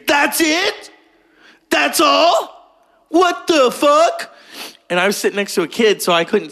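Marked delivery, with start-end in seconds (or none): 0.1-4.3 high-pitched outraged yelling; screaming at the screen. Retold or imitated. Moviegoers screaming at the screen, outraged. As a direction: imitate a disgusted audience yelling in disbelief. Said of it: "they're screaming at the screen".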